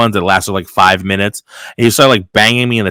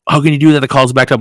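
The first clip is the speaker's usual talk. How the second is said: higher-pitched retold complaint; mock berating; 5 semitones higher, 3 dB louder, faster than usual. Coworker complains about lunch during backed-up calls, mock berating. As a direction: imitate an indignant coworker's scolding. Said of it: "he tried to berate me".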